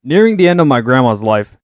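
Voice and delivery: steady read-aloud voice. Acted. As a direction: read it out like a written essay. Reading written text aloud.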